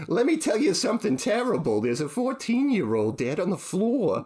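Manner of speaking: high-pitched New York granny impression; bad New York grandma accent. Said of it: "miserable impression of an accent".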